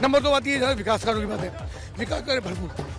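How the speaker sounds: winded while campaigning; out of breath. Real, not acted. Candidate listing development work to a reporter, out of breath. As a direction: talk on while short of breath. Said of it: "दम फूल रहा है आपका".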